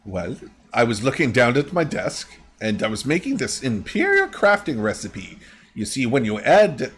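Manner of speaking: lightly voiced crafter, pitch swooping; chatty shop lady. Shop lady explains her recipe, lightly acted voice.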